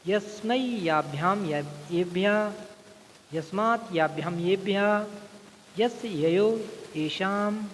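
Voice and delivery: measured classroom chanting of word forms; slow recitation drill. Shown as a demonstration. Teacher reciting forms for students to repeat, slow and measured. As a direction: recite the declension slowly, syllable by syllable. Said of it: "जैसे मैं अभ्यास करा देता हूँ आपका".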